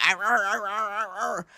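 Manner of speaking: mocking mumbled stammer, very soft; soft mock garbled noises; Peter Thiel. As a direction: imitate inarticulate babble under your voice. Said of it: "video of Peter Thiel going".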